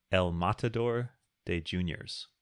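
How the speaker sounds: slow, exaggerated American take on Spanish; gringo Spanish accent. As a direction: say it like an American tourist speaking Spanish. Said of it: "That's my gringo Spanish accent".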